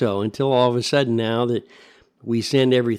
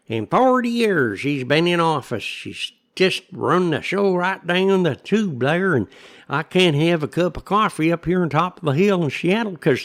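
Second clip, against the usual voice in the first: griping local voice; 5 semitones higher than usual. Retold or imitated. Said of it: "the only conversation we hear is".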